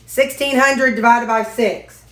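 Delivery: sixteen hundred said up and clearly for the voice assistant; firm command to a smart speaker. Real, not acted. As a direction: speak up so the device hears. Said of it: "Hey, Ziggy".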